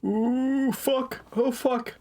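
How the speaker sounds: high panicked swearing; being chased. Real, not acted. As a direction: yelp as enemies close in.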